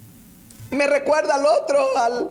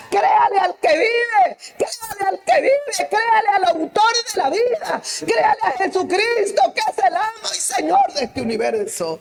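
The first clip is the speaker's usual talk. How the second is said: fiery preaching; 7 semitones higher than usual. Acted. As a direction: proclaim it with all your force. Preaching at full force.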